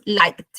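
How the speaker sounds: liked como «laikt», una sílaba; K y D fusionadas. Shown as a demonstration. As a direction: une la K y la D final de liked. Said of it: "Se fusiona otra vez la K con la D". (liked sin E, con final fusionado)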